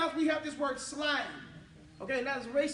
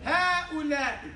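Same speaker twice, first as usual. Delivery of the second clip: slow model word; 4 dB louder, much slower than usual. Shown as a demonstration. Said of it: "Same word, but the word ha there".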